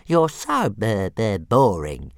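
slow, loud stammered complaint; sulky little dragon. A narrator's reading. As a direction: sulk in a stuttering creature voice. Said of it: "he said sulkily".

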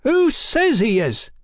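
high, slow shrill challenge; shrill it out into the silence; piercing indignant question. A narrator's reading. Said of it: "Tom shrilled out in the silence".

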